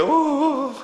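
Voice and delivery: high mock whimpering sobs; imitated child sobbing. Father retelling his daughter crying after the fall, high sobs. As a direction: whimper like a hurt toddler. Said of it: "하는 거예요".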